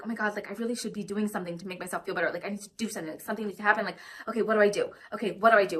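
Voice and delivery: quick, hushed, fretting to herself; a panicky little voice that won't stop; anxious inner voice. Retold or imitated. A speaker voicing her anxiety voice, fast and hushed. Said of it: "anxiety voice".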